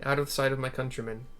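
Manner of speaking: a hint of a steady ruler; lightly voiced resolute lord. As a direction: lay out the plan calmly.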